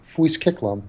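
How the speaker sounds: "Fuis Kiklam" as an odd-sounding tongue-twister; tricky sounds demo. Shown as a demonstration. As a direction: say "Fuis Kiklam" with the consonants deliberately muddled. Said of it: "struggle with certain phonetic sounds".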